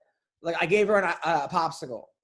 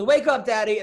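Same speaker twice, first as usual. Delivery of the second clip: imitated small child; 4 semitones higher, 6 dB louder than usual. Repeats daughter's wake-up call.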